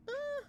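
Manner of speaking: high little girly squeal, imitated; tiny high fangirl sound; girly giggle. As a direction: mimic a giddy girly noise. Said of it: "I giggled like a girly girl".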